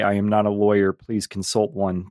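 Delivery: slow formal disclaimer read; mock legal disclaimer. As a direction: recite it like fine print. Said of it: "you have to say".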